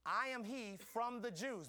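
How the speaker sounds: "I" stressed at the start, the whole line slowed; slow emphasis on I. Shown as a demonstration. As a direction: lean on "I" and go slow. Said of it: "Now notice this".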